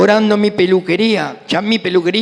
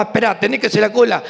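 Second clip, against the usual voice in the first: annoyed cashier; 4 semitones higher, faster than usual. Retold or imitated. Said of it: "y que se enojaba".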